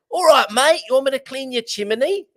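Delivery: high, loud pub holler in hammed-up British; shouted mock British accent. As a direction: call across a pub in bad British. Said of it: "shouting out across the pub like".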